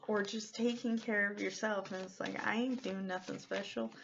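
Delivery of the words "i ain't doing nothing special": casual Southern twang, a little softly; lightly voiced Texan, offhand; Texas-like accent. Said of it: "I don't even have that accent".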